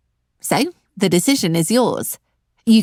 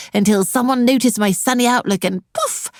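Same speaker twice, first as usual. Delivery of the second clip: sarcastic; 5 semitones higher than usual. Acted. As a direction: sell the fairy tale with heavy sarcasm. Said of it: "Sorry about the sarcasm".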